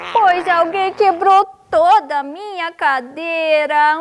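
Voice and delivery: high little cub wail; high, put-on tiny bear protest; crying-out baby bear. A narrator's reading. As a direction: cry out as the small bear.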